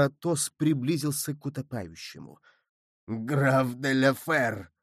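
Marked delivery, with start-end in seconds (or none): 3.1-4.7 mild exclamation. A narrator's reading. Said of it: "воскликнул Мордаунд".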